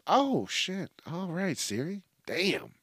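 hushed, comic astonishment; taken aback. Acted. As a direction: back off, playfully startled by the attitude. Acts taken aback by sassy Siri.

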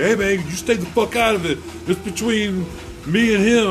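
acting out a worked-up friend warning someone off; retold quarrel yelling. Friend mid-quarrel telling a stranger to stay out, heated. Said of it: "they're yelling at each other".

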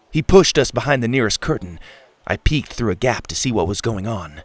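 ordinary delivery, nothing marked

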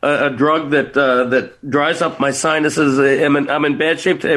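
stuffy blocked nose; talking through congestion; congested. Real, not acted. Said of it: "Listen, I'm congested today".

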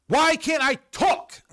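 high, slow squeak of frustration; mock squeak. Reading out a viewer's flustered comment in a high squeak.

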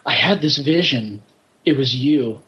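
a touch of mock profundity; mock meaningful speech. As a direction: lightly imitate a bad actor's big heartfelt moment. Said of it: "how bad was his meaningful speech".

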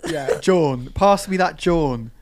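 John as Jawn, with the Philadelphia open aw; slow Philly Jawn; Philadelphia accent. Shown as a demonstration. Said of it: "John, but said with an accent?".

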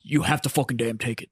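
low, fast imitation of a blown-out throat; Drill Sergeant Stankiewicz. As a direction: do a sergeant wrecked by chain-smoking. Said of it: "his throat was permanently blown out".

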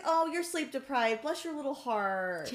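condescending. Retold or imitated. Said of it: "she was like".

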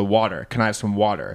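water with an American flapped T and R; Can I have some water, said like an American; Americanized water. Shown as a demonstration. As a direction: ask for water the American way, wadder. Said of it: "I change the way I say it".

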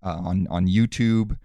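low calm villain voice; calm menacing wrestler. Acted. Wrestler character interviewed calmly.

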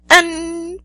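high, loud furious cry; choked with anger. A narrator's reading. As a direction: spit it out in rage. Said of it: "giận đến nghẹn lời".

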